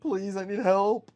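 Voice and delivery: high, loud wail for help; desperate, drawn-out pleading shout; anguished cry. Acted. Min cries out over Toby's dead body, anguished. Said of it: "She cries".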